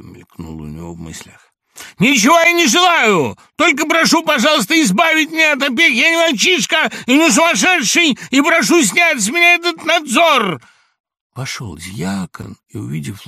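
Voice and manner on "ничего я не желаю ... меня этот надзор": high, loud, shaking with agitation; hysterical shout. A narrator's reading. Laevsky reeling, shouting high and loud at Samoylenko. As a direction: scream it out, close to a fit.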